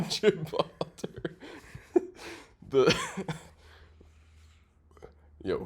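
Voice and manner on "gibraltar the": Gibraltar said through a laugh. Real, not acted. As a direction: laugh while saying Gibraltar. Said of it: "How you say this again?".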